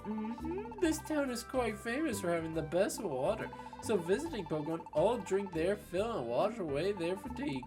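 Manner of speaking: lightly voiced upbeat companion; cheerful game character. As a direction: read the partner's lines brightly. Reads game partner's lines.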